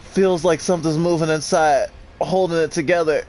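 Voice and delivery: reading note aloud. Acted. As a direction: read the dying worker's note, pained. Reads in-game note aloud.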